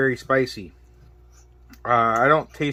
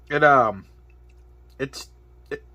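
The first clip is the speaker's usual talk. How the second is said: hiccuping; 2 semitones higher than usual. Real, not acted. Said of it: "as I'm hiccuping saying it".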